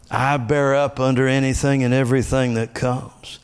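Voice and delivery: declaring. Shown as a demonstration. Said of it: "speak it out loud like the confessions".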